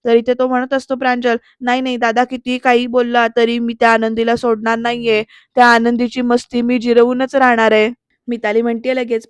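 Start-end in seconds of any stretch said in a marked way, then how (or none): 1.6-7.9 a touch louder, rising into anger; angry outburst. Retold or imitated. Younger brother fuming about Anandi, getting louder. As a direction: build from grumbling to a loud threat. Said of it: "चिडचिड चालली आहे".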